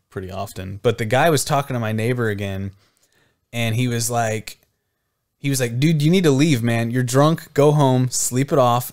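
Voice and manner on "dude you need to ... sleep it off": raised, firm telling-off; firm order. Retold or imitated. Neighbor telling a drunk guy to go home, firmly. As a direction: send the drunk packing.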